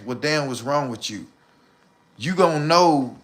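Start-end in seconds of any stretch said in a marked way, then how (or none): 0.0-1.3 softly mimicking a puzzled woman; a hushed, put-upon what's wrong with you; quietly mimicked question. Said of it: "wanna ask".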